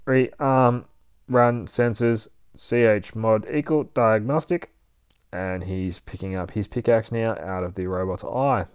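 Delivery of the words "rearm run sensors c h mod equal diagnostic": a hint of a robot voice; robot readout. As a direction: list commands like a machine. Blue robot runs its commands.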